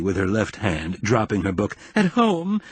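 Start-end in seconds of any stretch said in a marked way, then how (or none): 2.0-2.6 groaning between sobs. Acted. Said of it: "she groaned between sobs".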